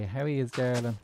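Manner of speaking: mock working Dublin accent; Dublin Howie accent. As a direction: put on a broad Dublin phrase. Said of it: "the Howies. They say".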